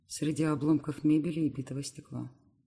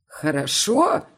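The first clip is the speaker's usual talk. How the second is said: Хорошо? yelled slowly, higher and much louder, rising; bellowed; 5 semitones higher, 10 dB louder, much slower than usual. Acted. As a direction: roar Хорошо back in disbelief. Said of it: "орёт дядя".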